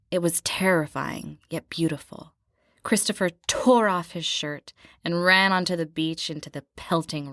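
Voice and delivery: reading the memoir quote with theatrical swells; dramatic book reading. Acted. Co-host reads the memoir passage aloud, hammed-up and dramatic. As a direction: read it like a swooning romance novel. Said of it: "she writes".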